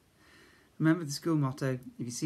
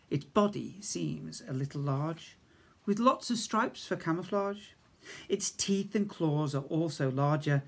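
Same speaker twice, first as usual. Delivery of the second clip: lively sing-song poem reading; 2 semitones higher, 3 dB louder than usual. Acted. Teacher reading a funny poem to Year One children, sing-song. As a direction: read it out bouncy, like a giggly rhyme.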